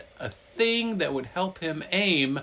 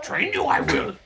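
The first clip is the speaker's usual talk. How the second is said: Yoda; 3 dB louder than usual. Retold or imitated. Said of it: "so Yoda's like".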